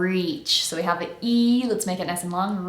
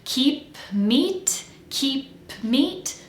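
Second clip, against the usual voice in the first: "Keep meat" higher, rising, brief gap after keep; tiny pause; 5 semitones higher, much slower than usual. Shown as a demonstration. Coach models p into m, tiny pause between words. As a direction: put a small stop between "keep" and "meat". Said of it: "there's a little tiny pause in there".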